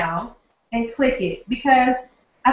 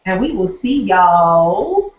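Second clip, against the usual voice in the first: slow, drawn-out southern accent, a bit louder; 3 semitones lower, 4 dB louder, much slower than usual. Shown as a demonstration. Signing off to viewers in a slow southern accent. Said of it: "in my southern accent".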